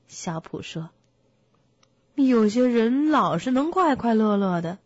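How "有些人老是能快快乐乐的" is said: louder, pointed donkey grumble; a touch of sulky envy; gloomy grumble. Acted. Donkey remarks on others always being cheerful, grumbling.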